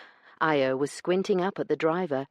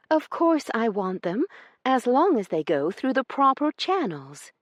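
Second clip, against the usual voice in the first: high, loud, strained politeness; polite through gritted teeth; forced politeness; 10 semitones higher, 4 dB louder than usual. Acted. Io holding back her anger toward Branson, forced politeness. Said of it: "she politely said, rather than yelled".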